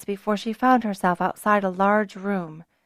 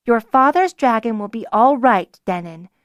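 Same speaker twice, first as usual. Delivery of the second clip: soothing; 2 semitones higher, 5 dB louder than usual. Acted. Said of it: "her tone suddenly quiet and soothing".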